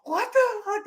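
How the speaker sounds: hammed-up indignant disbelief; mock outrage. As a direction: throw up your hands. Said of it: "Piper's just like".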